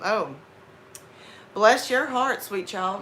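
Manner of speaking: sugary Southern sarcasm; sarcastic. Shown as a demonstration. Giving someone attitude in the South, sarcastic. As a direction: bless them with attitude. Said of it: "when they get into that sarcasm".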